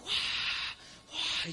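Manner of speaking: whispered wave whoosh; breathy crowd roar. Retold or imitated. Imitating five thousand people doing the wave, soft whoosh. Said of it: "hacían la ola".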